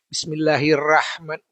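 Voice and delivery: Bismillahirrahman read flat and even; flat pronunciation. Shown as a demonstration. Teacher showing students the flat-reading mistake. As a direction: say Bismillahirrahman flatly, rah too thin. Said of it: "dia bacanya lurus begini. Datar-datar saja".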